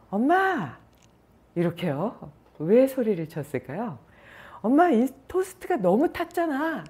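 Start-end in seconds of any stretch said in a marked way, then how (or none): 0.1-0.8 shouting. Retold or imitated. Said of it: "크게 소리를 쳤대요". 4.6-6.8 yelling complaint. Retold or imitated. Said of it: "이렇게 소리를 지르더래요".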